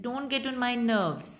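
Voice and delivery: slow request, tune falls then rises; plead, dipping then lifting the tune. Shown as a demonstration. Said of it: "आपकी tone है देखो fall हो रही है". (विनती वाली फॉल-राइज टोन)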